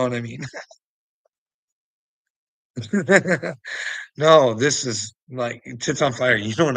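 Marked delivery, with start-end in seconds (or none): 2.8-4.1 high bubbling laugh. Real, not acted. Talking alone about confidence, breaks into high laughter. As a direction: burst into a loud run of chuckles. Amused at the remarks made.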